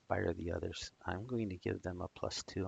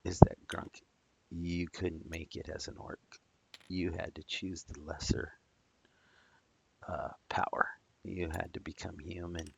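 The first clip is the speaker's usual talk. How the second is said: ghost taunting. Acted. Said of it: "this ghost is gonna start calling out".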